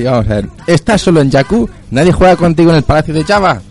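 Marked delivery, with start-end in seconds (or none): 0.7-1.7 higher, eager ad read; over eager infomercial. Acted. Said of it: "Voy a intentar leerlo así". 1.9-3.6 over eager infomercial. Acted. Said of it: "Voy a intentar leerlo así".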